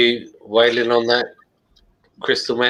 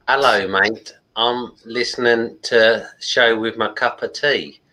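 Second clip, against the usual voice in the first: a light, hammed-up English accent, barely shifted; fake English accent. Shown as a demonstration. Reading a chat message to co-hosts in a light fake English accent. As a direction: play a cheery Englishman with his tea, lightly. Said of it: "I will do a fake English accent".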